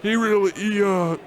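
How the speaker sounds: flustered. Acted. Bartender hurriedly invents a story.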